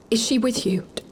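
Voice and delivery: faint poisoned whisper; weak whisper. Acted. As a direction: whisper it, barely strong enough to speak. Poisoned sister, weak, bedridden.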